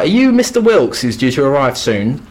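a keen lad greeting a stranger; eager young lad. Acted. Boy voiced in retold story.

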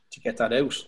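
talking through a burp; words pushed out around a burp. Real, not acted. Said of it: "I literally am burping".

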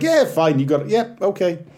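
mock-grudging approval, dropping at the end; laughing concession. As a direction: concede the joke with a light, acted shrug. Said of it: "it's the combination of a laugh and like".

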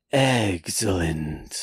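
low, drawn-out scheming villain; Mister Burns. Acted. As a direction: savor the word slowly, low and sinister. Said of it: "like Mister Burns".

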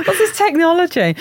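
high, wondering mock question; lightly voiced astonished peasant; mock baffled peasant. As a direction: gape at the phone like a medieval villager.

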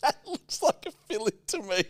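high, imitating the Swedish dentist voice; mock Swedish. Repeating his friend's dentist line, high mock Swedish.

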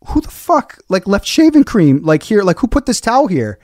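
high, angry yell at the towel; furious outburst. Retold or imitated. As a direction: snap at whoever left it. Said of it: "made me so furious".

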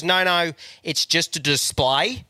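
slow, dismissive mock of the assistant; mocking deadpan. Mocking the shop assistant's excuse, slow and dismissive. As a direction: drag it out like a bored jobsworth.

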